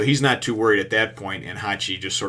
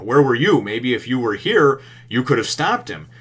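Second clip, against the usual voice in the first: louder, accusing demand; scolding; 3 semitones higher, 6 dB louder than usual. Retold or imitated. Arlong scolds Hachi for being away, loud reproach. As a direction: chew him out for being absent.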